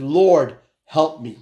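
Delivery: mildly acted cry for help, loud on the first word; retold plea to heaven; crying out to God. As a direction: call on God, then drop away. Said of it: "he cried out to God".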